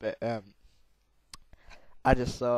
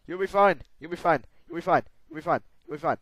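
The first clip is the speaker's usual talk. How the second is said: fading reassurance; 4 semitones higher, 5 dB louder, faster than usual. Real, not acted.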